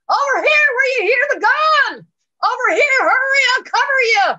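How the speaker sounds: high, full-voiced holler to a stranger; urgent acted shout. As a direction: call them in urgently over the distance. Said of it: "shouting real loud".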